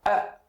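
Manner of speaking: A isolado e destacado; demo vowel A. Shown as a demonstration. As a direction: solte o som A sozinho, claro. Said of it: "quando eu falo A". (A pronunciado isolado)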